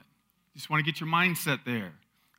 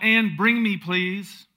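loud, raised call; 5 semitones higher, 6 dB louder, much slower than usual. Acted. Elijah calls to the widow as she goes, calling out. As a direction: call it out after someone walking away. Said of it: "he called out".

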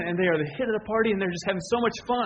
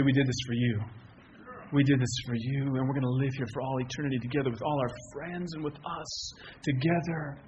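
softly voiced, lower, heartfelt promise; tender; 4 semitones lower, 4 dB quieter than usual. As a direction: present a gift gently and sincerely. Voices God's tender gift to believers.

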